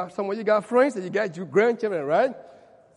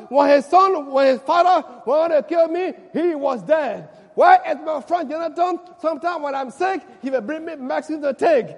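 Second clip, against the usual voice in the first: loud, crying-out lament, much higher; David's lament; 7 semitones higher, 12 dB louder than usual. Acted. David on the throne crying for Jonathan, shouted lament. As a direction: call out for the lost friend again and again.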